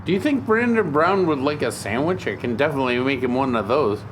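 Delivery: far off in the kitchen; from another room. Acted. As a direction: call it from the next room. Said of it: "I'm in the kitchen".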